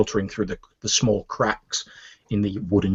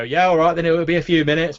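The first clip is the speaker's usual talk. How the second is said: higher, raised cook's voice; grudging back-room cook; 7 semitones higher, 4 dB louder than usual. Acted. Half-elf cook giving in from the back room, grudging and high. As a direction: answer grudgingly in a raised pitch. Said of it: "you hear this voice go".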